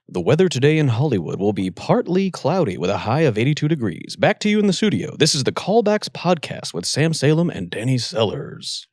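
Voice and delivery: smooth TV weatherman read; newscaster voice. Pretend. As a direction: read it like the local news weather. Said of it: "a fake weather reading in your newscaster voice".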